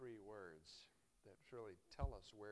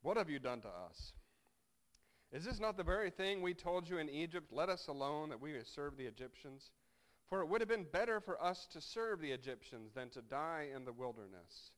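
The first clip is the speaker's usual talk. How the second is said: louder, rising complaint; complaining; 2 semitones higher, 8 dB louder than usual. Acted. Israelites berating Moses in the wilderness, louder complaint. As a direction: read it as bitter griping at Moses.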